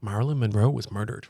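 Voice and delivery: low, eerie announcer voice; spooky low voice. Acted. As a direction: say it like a creepy reveal. Spooky repeat of the claim.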